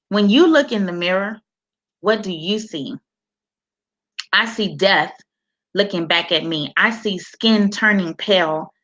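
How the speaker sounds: measured reading of a personal poem. Acted. Author reading her cancer poem to viewers.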